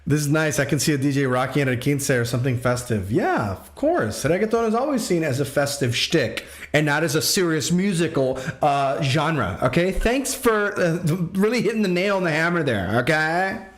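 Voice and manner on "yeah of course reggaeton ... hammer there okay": mock indignant sarcasm. Streamer teasing a viewer over reggaeton as festive, mock-indignant sarcasm. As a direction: pretend to be put out, pitch lifting on the thanks. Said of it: "I'm just kidding".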